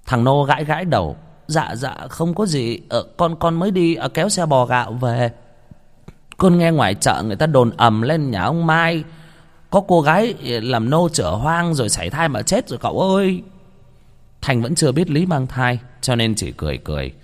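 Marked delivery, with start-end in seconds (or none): 1.5-13.4 higher-pitched, stammering gossip; deferential, faltering, then eager to tell; hesitant young servant. Acted. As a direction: relay awkward news to your master. Nervous servant hedges, relaying gossip.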